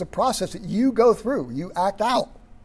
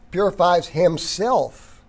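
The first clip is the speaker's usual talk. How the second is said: slow "Purifies himself." with weight on "Purifies"; deliberate stress on every word; emphasizing each word; much slower than usual. Shown as a demonstration. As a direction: lean on "Purifies", then give "himself" its own weight. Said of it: "Notice how I'm emphasizing each word in this verse".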